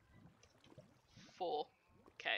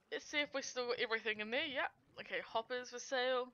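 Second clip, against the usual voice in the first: hiccups; 3 semitones higher, faster than usual. Real, not acted. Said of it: "I have the hiccups".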